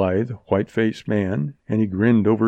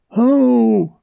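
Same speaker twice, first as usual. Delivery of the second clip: high, loud hail; calling out; 13 semitones higher, 7 dB louder than usual. A narrator's reading. Man outside the cabin hailing those within, calling out. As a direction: holler one long call. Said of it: "cried a voice from without".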